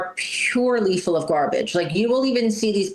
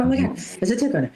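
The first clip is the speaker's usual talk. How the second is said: quick, slightly raised panicky blurt; mock spaz out; 4 semitones higher, much faster than usual. Owner finding a tick on her dog, quick mock panic. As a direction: rattle it off like a startled pet owner. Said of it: "but I do spaz out".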